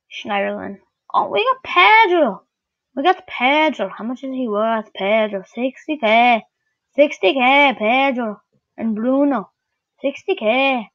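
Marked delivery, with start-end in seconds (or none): 1.1-10.9 slipping into a Canadian accent; lightly Canadian-sounding delivery. Real, not acted. Gamer pricing Pedro from a pack, unintended Canadian accent. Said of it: "talking like I'm Canadian".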